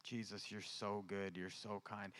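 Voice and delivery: soft whispered thanks to Jesus; whispered prayer. Real, not acted. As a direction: breathe the thanks out, barely voiced.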